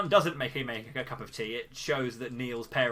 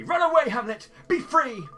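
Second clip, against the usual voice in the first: high, loud cry of release; dramatic farewell call; 13 semitones higher, 11 dB louder than usual. Pretend. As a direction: shout after him to run free. Calling the pig to flee.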